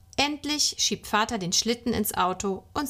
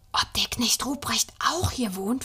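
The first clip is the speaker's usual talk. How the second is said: put-on hushed child's whisper; breathy, voiceless wondering; 2 semitones higher than usual. A narrator's reading. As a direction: whisper it as a secret question. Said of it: "flüstert Schnüpperle".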